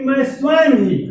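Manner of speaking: स्वयं ही brought out with emphasis; stress on स्वयं ही. Shown as a demonstration. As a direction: lean on स्वयं ही. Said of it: "जोर दे रहा है".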